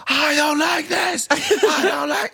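put-on high, slow childish wail; screaming kid. Boy on the plane screaming in English, high drawn-out wail. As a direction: mimic a bratty kid yelling in English. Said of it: "Og bare".

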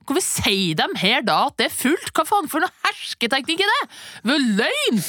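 mock indignant rant; indignant outburst. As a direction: protest the lie in outrage. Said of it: "Og jeg bare".

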